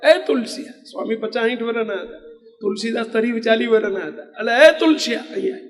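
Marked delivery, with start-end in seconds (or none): 0.0-0.7 imitated higher-pitched call; curt summons. Older swami addressing the rich headman without respect, curt summons. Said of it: "ટૂંકારો કરીને પેલા સંતે બોલાયો". 4.7-5.6 higher imitated calling-out; curt summons. Older swami calling the younger headman over, curt summons. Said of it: "ટૂંકારો કરીને પેલા સંતે બોલાયો".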